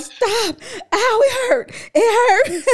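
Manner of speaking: high, strained laugh-crying; laughing so hard it hurts. Retold or imitated. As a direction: squeal it through helpless laughter. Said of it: "you hold on to your stomach talking about".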